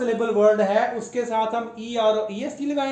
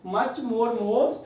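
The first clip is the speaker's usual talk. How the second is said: much more most drawn out very slowly, word by word; slow teaching drill; much slower than usual. Shown as a demonstration. Teacher repeats the degrees for pupils, very slow and deliberate. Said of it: "much more most खुद एक degree है".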